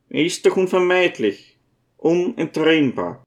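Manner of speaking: high-voiced old priest searching for comfort; gentle old priest, consoling. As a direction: reason mildly with a grieving friend.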